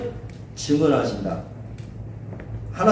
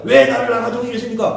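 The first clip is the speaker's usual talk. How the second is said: raised, high-pitched protest to a parent; acted outcry; 7 semitones higher, 3 dB louder than usual. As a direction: cry out "why" as a mock complaint. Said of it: "차라리 소리치는 게 낫겠죠". (부모에게 소리치듯 따지는 말투)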